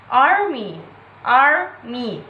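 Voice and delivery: "army" with a long, stressed AR; stress on first syllable. Shown as a demonstration. Teacher giving an example to viewers, ARmy stressed up front. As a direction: stretch the first syllable of "army", then fall. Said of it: "stress on first syllable".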